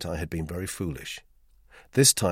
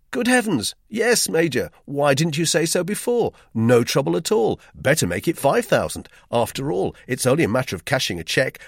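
hearty, breezy reassurance; cheerful; 8 semitones higher, 6 dB louder than usual. Acted. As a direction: cheerfully brush it aside. Imagined cheerful reassuring reply.

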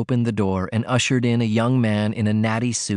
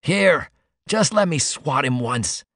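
slow, higher-pitched plea; pleading; 4 semitones higher, slower than usual. A narrator's reading. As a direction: beg eagerly for one turn.

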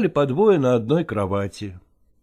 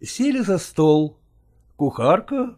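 ordinary delivery

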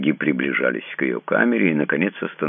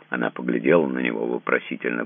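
ordinary delivery, nothing marked

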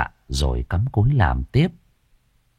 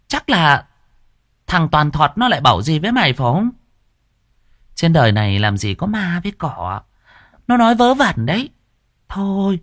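much higher, brisk and bossy; shrill scolding mistress; 10 semitones higher than usual. Acted. Mistress dismissing servant's fear, high and bossy.

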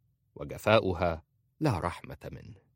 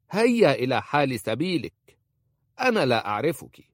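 put-on a higher, louder old woman's voice throwing her out; harsh old woman; 6 semitones higher, 6 dB louder than usual. A narrator's reading. Khalisa throwing Aisha out of her room, harsh. Khalisa opens the door to expel.

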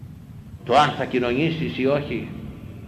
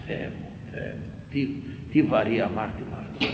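anguished whisper; 3 semitones lower, 7 dB quieter than usual. Real, not acted. Anguished aside.

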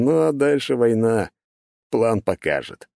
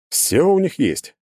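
aside; 9 semitones higher, slower than usual. A narrator's reading. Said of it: "куда-то в сторону проговорил".

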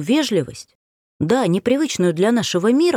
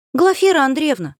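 calling out; 9 semitones higher than usual. Acted. Strelcov calls out to heroine.

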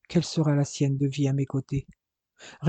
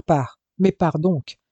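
half-shouted, pushing him out the door; almost a cry, louder on pars; nearly shouting; 3 dB louder, slower than usual. Acted. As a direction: brother sending his twin away, nearly shouting. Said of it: "Il cria presque les derniers mots".

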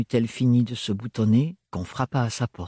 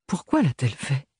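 wary tone; 3 semitones higher than usual. A narrator's reading. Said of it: "d'un ton circonspect".

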